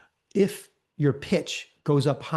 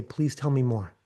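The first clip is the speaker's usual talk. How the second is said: calm inviting; 2 semitones lower than usual. Shown as a demonstration. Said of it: "and just say".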